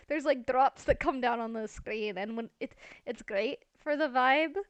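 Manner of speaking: fed up and pleading, pushing the key words; exasperated complaint. Real, not acted. Gamer begging the rain to stop mid-build, exasperated.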